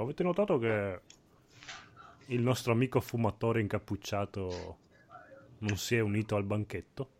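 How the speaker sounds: talking with a mouth full. Acted. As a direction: speak through a mouthful of stew. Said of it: "io con la bocca piena dico".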